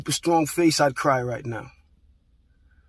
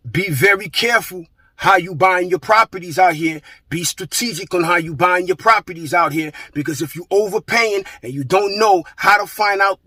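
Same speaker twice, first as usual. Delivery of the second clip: louder and higher, hammering each line home; a heated call-out to the audience, some words slowed; real frustration, raised voice to tenants and landlords; fired-up warning; 3 semitones higher, 4 dB louder than usual. Real, not acted.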